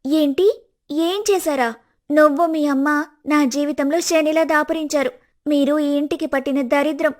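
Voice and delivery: heated, scornful tirade; angry outburst. Acted. Wife insulting her husband's sister and mother, heated. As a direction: spit the insults at them. Daughter-in-law insults the family.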